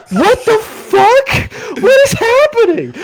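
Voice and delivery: high, slow, dragged-out what the fuck; like you can't believe your eyes; baffled teenager, high-pitched and drawn out; stunned disbelief. Retold or imitated. Teen stunned in strip club.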